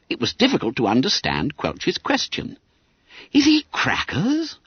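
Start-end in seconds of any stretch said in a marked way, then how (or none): 3.3-4.6 whispered schoolboy. A narrator's reading. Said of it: "whispered Bob Cherry".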